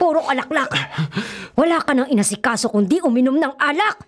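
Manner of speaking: exasperated mother rebuking her son; scolding. Acted. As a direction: scold him for his drinking.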